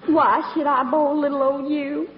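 flirty fake Southern belle accent; southern belle act. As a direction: coo at him like a Southern belle. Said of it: "my little old southern routine".

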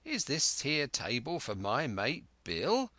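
sly leering pirate voice; leering seaman. Acted. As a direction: lean in with a leer. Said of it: "with a kind of leer".

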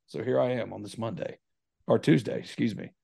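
hoarse, croaky voice; frog voice. Real, not acted. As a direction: croak it out like a lost voice. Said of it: "sounding like a, uh, frog who just woke up".

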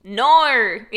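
loud, exaggerated Aussie "No"; hammed-up Australian vowel with a laugh; Australian accent. Shown as a demonstration. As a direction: stretch "No" into an Australian "naur". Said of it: "the only things that I can say".

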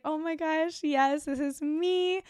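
delighted recognition. Retold or imitated. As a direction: act out a slow, high-pitched gush of recognition. Voices her spirit's delighted recognition.

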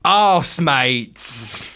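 lightly put-on Cockney, "Arse" loud and long; Cockney accent. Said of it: "Brackets, Cockney accent".

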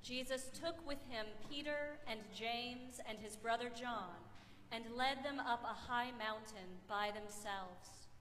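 measured, solemn Gospel reading; scripture reading. Acted. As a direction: read scripture aloud to a congregation, evenly and with pauses. Reads the Gospel aloud in church.

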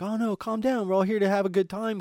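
high, soothing voice to calm her; mock-soothing a ranting stranger; soothing placation.

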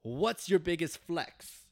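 high, loud, slow mock Aussie; Australian accent attempt. Host reading out a fan's question, mock Australian accent. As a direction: stretch the question in hammed-up Australian. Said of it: "That's my best attempt at an accent".

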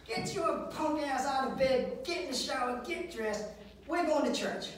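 imitated bossy mother. Mother rousing hungover son for church, bossy. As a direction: order him up like a fed-up mom.

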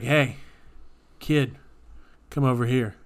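loud beckoning call across the beach. Retold or imitated. Beach guy calling a kid over, loud call.

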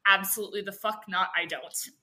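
low, quiet, quick refusal; understated, dead-set no; retold refusal. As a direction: refuse under your breath, dropping away. Retold flat refusal to cop.

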